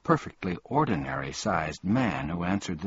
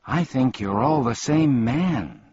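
higher, louder, with firm emphasis on "same man"; emphatic; 4 semitones higher, 5 dB louder than usual. A narrator's reading. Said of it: "said Milo emphatically".

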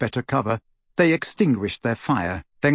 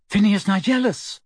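calling out; 8 semitones higher than usual. A narrator's reading. Calling again.

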